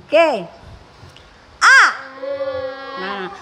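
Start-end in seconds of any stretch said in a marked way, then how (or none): 1.6-1.8 A with the mouth opened wide; open A sound. Shown as a demonstration. Teacher models A with the mouth wide for children. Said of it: "mulut dibuka besar".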